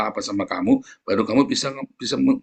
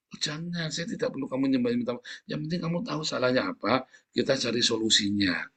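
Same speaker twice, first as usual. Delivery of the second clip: much softer, calm reassurance; gentle refusal; 6 dB quieter than usual. Retold or imitated. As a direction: calmly stop them from groveling. Gentle reply to groveling spouse.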